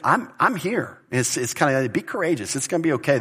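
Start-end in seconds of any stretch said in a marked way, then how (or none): 0.0-1.0 higher-pitched, reassuring voice; encouraging. Acted. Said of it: "it was spoken of encouragement". 1.9-3.2 lightly acted reassurance, pitch lifted at first; mild, encouraging lift. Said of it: "it was spoken of encouragement".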